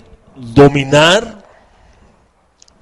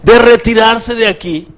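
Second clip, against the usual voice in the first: high-pitched, excessively courteous request; over-polite plea; 7 semitones higher than usual. Acted. Shepherd meekly asking the wolf to leave, over-polite. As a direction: ask with exaggerated politeness.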